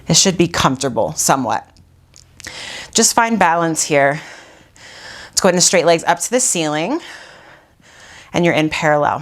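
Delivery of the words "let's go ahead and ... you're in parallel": winded while cueing; out of breath. Real, not acted. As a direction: talk out of breath from exercise. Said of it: "I'm out of breath".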